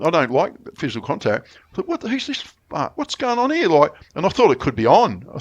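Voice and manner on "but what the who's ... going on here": sharply higher, startled and offended; a mock-indignant who-did-that; indignant outrage. Indignant thought when elbowed at bar.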